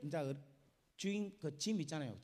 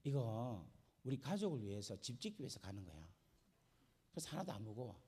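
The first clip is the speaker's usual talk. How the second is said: calm ant; 5 semitones lower than usual. Acted. Ant calmly answers the camel.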